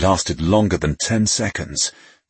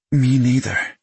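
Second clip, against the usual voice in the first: higher, gentle female voice; lightly voiced woman; 8 semitones higher, 3 dB louder than usual. A narrator's reading. Woman character answers softly.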